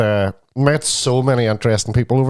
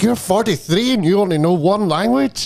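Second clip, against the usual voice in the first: high-pitched retold disbelief; mock disgusted question, pitched well up; 8 semitones higher than usual. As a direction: imitate an excitable man appalled at someone. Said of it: "And he was disgusted".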